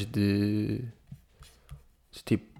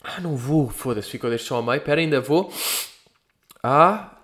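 about to sneeze, breath catching; holding back a sneeze; 2 semitones higher than usual. Real, not acted. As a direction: talk through a coming sneeze. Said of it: "ai, eu vou espirrar".

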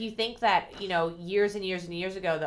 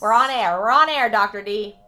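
loud teasing call to the phone; 8 dB louder than usual. Real, not acted. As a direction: shout it so dad hears. Shouting to caller dad.

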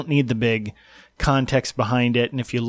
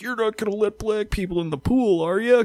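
mock movie racist; 9 semitones higher than usual. Mocking a swim-team movie's racist, high sneering voice. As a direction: play the cartoon racist from the movie. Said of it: "kind of thing".

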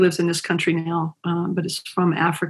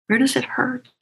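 a whispered question to the world; 7 semitones higher, faster than usual. Acted. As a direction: breathe the question out. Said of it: "and whispered".

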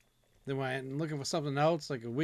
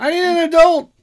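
put-on whiny child voice; 18 dB louder than usual. Joking childlike cry.

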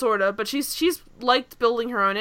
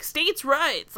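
mock Southern accent; 4 semitones higher than usual. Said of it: "It was, like, stereotypical Southern".

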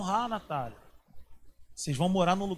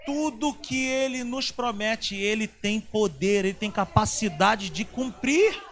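slow, loud preaching proclamation; preaching at full force; 3 semitones higher, 8 dB louder, slower than usual. Acted. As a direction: proclaim it over the church, slowly. Preaching climax. (pregação forte e lenta, proclamando)

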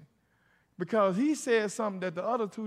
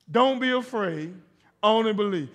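emphatic call; 2 semitones higher, 8 dB louder than usual. Shown as a demonstration. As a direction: lead the congregation loudly. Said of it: "Say it like you mean it".

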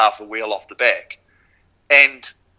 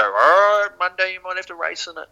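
mock coach voice, pitched up; Dick; 7 semitones higher than usual. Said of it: "And he'd always go".

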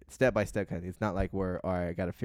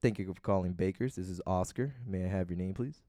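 customer service voice; 2 semitones lower, 3 dB quieter than usual. Acted. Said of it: "here's my customer service voice".

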